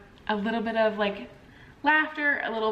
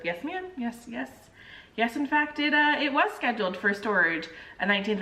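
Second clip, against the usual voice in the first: respectful restraint. Retold or imitated. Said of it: "be respectful".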